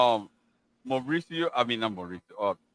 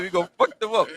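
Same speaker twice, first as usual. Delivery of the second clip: mock boast; 7 semitones higher, much faster than usual. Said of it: "He said".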